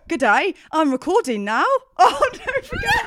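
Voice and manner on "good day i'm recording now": put-on slightly raised, botched Australian accent. Podcaster warming up for co-host, shaky attempt at Australian accent. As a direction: badly attempt an Australian greeting. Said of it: "please do your Australian accent".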